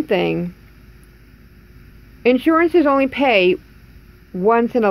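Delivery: talking around denture plate; slightly obstructed lips; denture held against lips. Real, not acted. Seen 0: Holds full denture plate against her open mouth while speaking.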